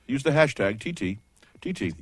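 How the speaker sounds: easy, pleasant radio voice. Shown as a demonstration. Host showing the normal hashtag plug, very pleasant. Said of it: "very pleasant".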